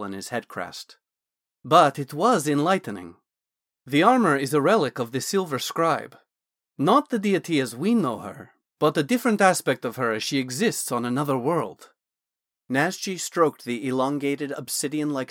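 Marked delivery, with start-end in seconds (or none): 1.6-11.9 lightly voiced scholarly mage, louder; a hint of an eager Dragonborn scholar; Naz the Dragonborn mage. Wizard Naz explaining the armor to Thorn, lightly voiced and louder.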